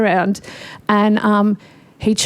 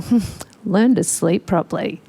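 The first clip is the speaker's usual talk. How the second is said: smug. Retold or imitated. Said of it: "warm golden glow going".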